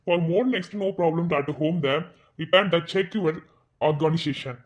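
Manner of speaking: very slow, formal read of the minutes; formal meeting read. Acted. Kavin opening a board meeting, slow formal announcement.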